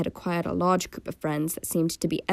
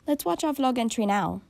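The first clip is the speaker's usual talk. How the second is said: exclaiming; 7 semitones higher than usual. Acted. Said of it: "exclaimed Ella".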